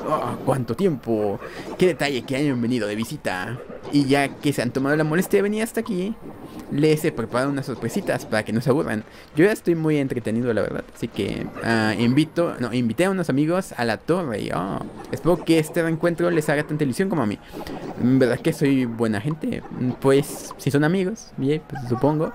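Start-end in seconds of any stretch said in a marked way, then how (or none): 0.1-9.0 Ultramago Kirby. Acted. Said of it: "Es el Ultramago Kirby". 14.4-19.6 Ultramago Kirby. Acted. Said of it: "Es el Ultramago Kirby".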